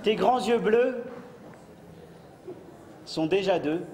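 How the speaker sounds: slow, grand poetry recital; hammy stage actor. Acted. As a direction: declaim it like a ham actor. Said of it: "Poème".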